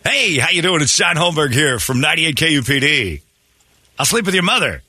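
impression of John Holmberg. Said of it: "your impression of John Holmberg".

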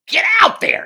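sudden high shouted order; stagehand yelling. Retold or imitated. Stagehand shoving a frozen kid onstage, loud high yell. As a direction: bark it like an impatient stagehand. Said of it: "the stagehand behind me is like".

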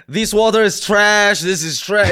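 loud, high-pitched imitation of an online water critic; Water Som. Water critic walking up to a seven eleven, loud mock verdict. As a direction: proclaim it like a water reviewer, badly faked Swedish accent. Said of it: "He has a Swedish accent or something".

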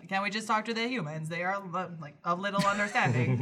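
lightly robotic, even delivery; mild talking-computer impression. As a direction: imitate a speech program, evenly paced. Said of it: "that's my robo voice".

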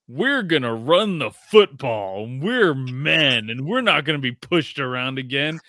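hammed-up tough guy bragging; puffed-up Rams. Mocking the Rams' bravado.

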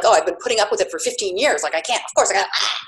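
rushed, fed-up venting; retold exasperation. Recalling fifteen years of putting up with it, retold exasperation. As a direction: rattle it off like an old grievance. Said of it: "at the time I felt like".

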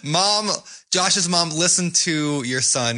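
playful plea to mom. Pretend. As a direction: address the friend's mom with mock earnestness. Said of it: "Do it".

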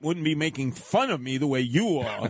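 stuffed-up head cold voice; blocked nose. Real, not acted. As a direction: talk through a congested nose. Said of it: "I have a congested head cold".

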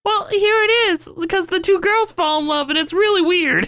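high falsetto argument; put-on girl voice. Insisting to co-host in a girl voice. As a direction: keep arguing in the silly girl squeak.

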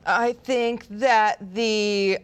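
very slow, halting attempt at an accent; drawn-out, abandoned psychic accent; attempted Miss Cleo accent. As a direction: stretch each word into a put-on accent. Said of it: "so I can't do the accent".

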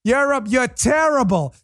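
mock heckle, high and drawn out; imitated New York heckler. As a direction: mimic a New Yorker laying into someone. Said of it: "That's a total New York".

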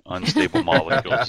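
excited. Acted. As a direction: belt it out like a proud punchline. Repeating the catchphrase with relish.

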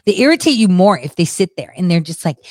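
ordinary talk, nothing marked

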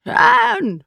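high-pitched urgent cry; angry, urgent call. A narrator's reading. Unseen voice calls to Hand, angry and urgent. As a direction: call the name out high and angrily. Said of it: "angry and urgent".

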